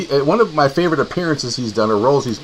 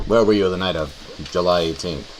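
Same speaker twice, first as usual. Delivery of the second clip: low, softer Perry Mason-style grilling; courtroom lawyer voice; 7 semitones lower, 5 dB quieter than usual. Acted. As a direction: interrogate like a TV defense lawyer. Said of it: "Perry Mason".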